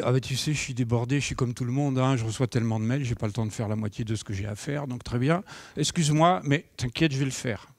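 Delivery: quick, offhand excuses; excuse-making colleague. Retold or imitated. Colleague brushing off the task with fast excuses. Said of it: "il me dit".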